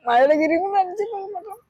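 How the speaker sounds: real weeping while she talks; crying. Real, not acted. Old woman telling the visitor her hardship, crying. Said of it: "அழுகாதீங்க".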